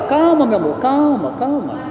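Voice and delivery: repeating calm to his nervous wife, gently fading; soothing wife. Retold or imitated. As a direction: settle her down gently. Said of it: "Eu falo assim com ela".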